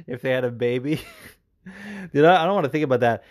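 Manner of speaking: laughing through the words; amused laughing. Real, not acted. Host reacting to a question about two fighters' baby, laughing. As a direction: giggle at an absurd thought.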